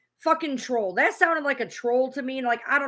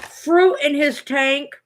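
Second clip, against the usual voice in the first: slow, disgusted repeat of the phrase; incredulous; 5 dB louder, slower than usual. Real, not acted. Streamer repeating the gossip slowly in disbelief. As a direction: drag it out in disbelief.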